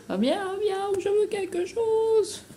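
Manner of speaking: very high, slow little cat voice; voicing the cat. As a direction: answer for the cat in a tiny squeaky voice. Voices the cat's answer.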